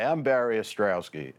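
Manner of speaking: normal talking voice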